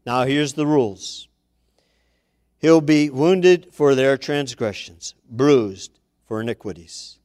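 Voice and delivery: a hint of a grand, solemn God; majestic God. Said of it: "as majestically he said".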